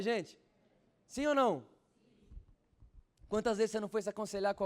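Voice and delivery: loud, high revival preaching; full-force pulpit preaching; fiery preaching. Acted. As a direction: preach it out to the whole church.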